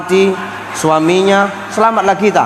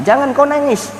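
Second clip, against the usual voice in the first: voice of God; 7 semitones higher than usual. Acted. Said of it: "apa kata Allah?".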